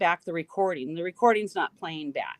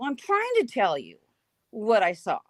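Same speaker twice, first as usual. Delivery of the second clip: frustrated insistence; 2 semitones higher than usual. Retold or imitated. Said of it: "I'm getting mad".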